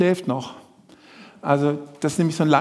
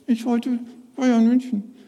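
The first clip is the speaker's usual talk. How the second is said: higher, slow, sulky puppet voice; puppet Willi; 5 semitones higher, slower than usual. Acted. Puppet Willi telling the presenter what he wanted, whiny. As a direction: whine it out slowly.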